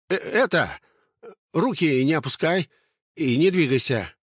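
high, jittery order to freeze; a scared sentry trying to sound tough; shaky lookout giving commands; nervous guard. Acted.

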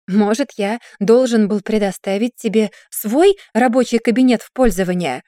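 indignant sarcastic question; mild outraged retort. Acted. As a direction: bristle back at her. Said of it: "возмутился Гийон".

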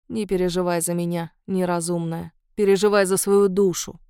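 put-on coolly indifferent old witch; detached, indifferent. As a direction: say it with cold detachment. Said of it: "голос её звучал отстранённо, даже равнодушно".

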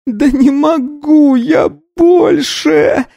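strained growl, pushing hard; growling through teeth. Acted. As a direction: groan it out through clenched teeth. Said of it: "прорычала сквозь стиснутые зубы".

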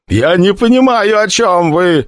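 moaning. Acted. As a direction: beg through the pain. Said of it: "стонал потлатый призыватель".

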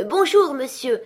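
high, lively festive greeting; cheery hail. A narrator's reading. Merry fellows greet Scrooge in the street, cheery hail. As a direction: call out merrily, starting high and loud. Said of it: "joyeux gaillards ne purent s'empêcher de l'interpeller".

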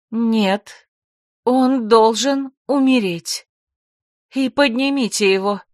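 slow and cold, no feeling at all; cold, emotionless. Acted. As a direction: pronounce the sentence like an unfeeling zombie. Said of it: "Таким холодным, безэмоциональным голосом?".

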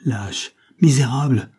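loud, slow, furious insult; furious outcry. Acted. Carmela turns on the vicomte, furious and loud. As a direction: spit the insult at him in rage. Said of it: "s'écria-t-elle".

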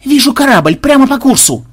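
high, loud lookout's cry; sudden shout. A narrator's reading. Lookout in the crow's nest spotting a ship, sudden shout. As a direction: sing out the sighting at full pitch. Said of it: "Неожиданно он крикнул".

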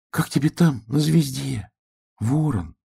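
high piglet calling to the sky. A narrator's reading. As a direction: call up to a far star. Piglet calls to star.

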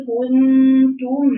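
كنتم slowed, the nasal ghunna held before the ت; meem with ghunna. Shown as a demonstration. Teacher demonstrating the meem sound to students. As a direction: hum the ن in كنتم, lips just touching. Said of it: "مجرد لامس شفتين".

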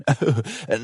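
short sarcastic chuckle; a dry mocking laugh before speaking. A narrator's reading. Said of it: "قال على الفور ساخرا".

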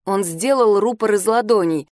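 ordinary delivery, nothing marked

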